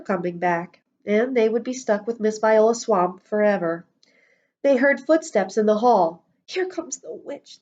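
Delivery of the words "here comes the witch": put-on high, hushed child whisper. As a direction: hiss it under your breath. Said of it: "they whispered".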